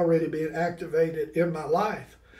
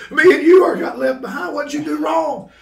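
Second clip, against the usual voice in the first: higher, louder retold accusation; mock wailing; 8 semitones higher, 6 dB louder than usual. Panicked kid to the storekeeper left behind, mock wail. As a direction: act out a distraught kid, half in fun. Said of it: "I'm wailing, crying".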